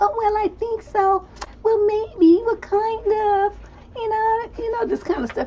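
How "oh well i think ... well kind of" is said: very high, slow, hesitant, timid voice. Showing the timid way of answering that lacks conviction, mock-timid hesitant tone. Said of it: "You say it in that timid way that most women talk".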